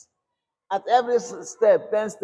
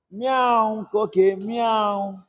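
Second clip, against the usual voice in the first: mock cat meow; 2 semitones higher, much slower than usual. Shown as a demonstration. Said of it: "I will allow my".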